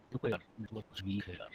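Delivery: faint, distorted call audio; bad connection. Real, not acted. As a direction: voice dropping out on weak network. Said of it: "अच्छा, आवाज नहीं आ रही".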